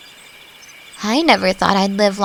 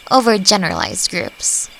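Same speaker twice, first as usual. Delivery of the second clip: ordinary delivery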